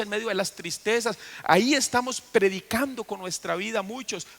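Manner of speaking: high, loud preaching; full-force pulpit preaching; fiery preaching. Acted. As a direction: lift it up and preach hard.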